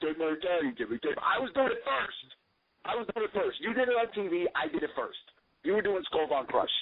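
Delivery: mocking Vito's whine. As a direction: parody a nagging old vet griping. Mocking Vito's nagging complaint.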